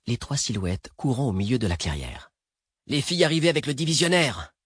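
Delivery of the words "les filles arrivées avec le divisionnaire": high, urgent call; cried out. A narrator's reading. Ahmed spots the girls from the speeding car, crying out. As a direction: call out in alarmed recognition. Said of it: "cria Ahmed".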